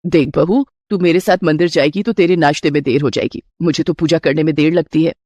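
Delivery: a doting mother-in-law offering a gift. Acted.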